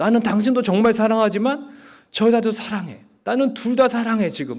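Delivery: put-on high-pitched, tearful voice, talking while weeping. Retelling a drama scene where the husband confesses: imitating a crying husband. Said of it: "막 울면서 얘기하는 겁니다".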